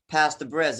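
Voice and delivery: American accent, "past" said with the flat front a of "cat". Shown as a demonstration. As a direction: give "past the bridge" the American short a in "past". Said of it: "in American accent".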